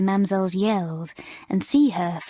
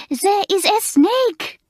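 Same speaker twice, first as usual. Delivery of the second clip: much higher, louder horrified squeal; squealing in horror; 12 semitones higher, 6 dB louder, slower than usual. A narrator's reading. French mistress stopping Alicia reaching up the chimney, horrified squeal. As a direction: beg her to stop, near panic. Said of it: "in horror".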